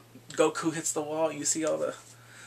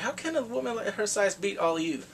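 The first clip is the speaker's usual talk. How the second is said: lightly acted disbelief, pitched up; incredulous cop; 5 semitones higher than usual. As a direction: question them in higher-pitched disbelief. Cop crush incredulous at the thugs.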